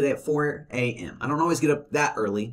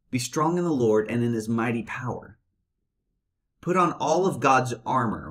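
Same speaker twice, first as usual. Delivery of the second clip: thoughtful reading. Shown as a demonstration. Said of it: "No, stop. Hold on for a minute".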